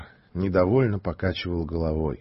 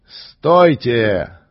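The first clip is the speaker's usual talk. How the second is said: louder firm order; commanding call; 6 dB louder than usual. Acted. The stranger halts the mob with a loud call. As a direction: stop them with one word. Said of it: "Его голос покрыл крики".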